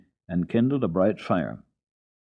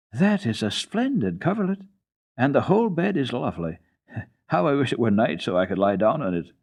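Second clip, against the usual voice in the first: put-on higher, excited child voice with a laugh; delighted Heidi; 4 semitones higher than usual. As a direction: gush over it like a happy child.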